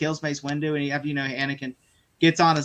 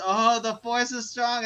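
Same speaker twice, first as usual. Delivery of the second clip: slow, higher mock villain moan; the Emperor; 5 semitones higher, slower than usual. Emperor in the joke edit before shooting lightning, slow mock moan. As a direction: draw it out as a parody Sith master. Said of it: "afterward he goes".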